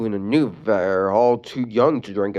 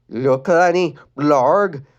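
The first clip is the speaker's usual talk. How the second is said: Adam voice; 3 semitones higher, 4 dB louder, much slower than usual. Acted.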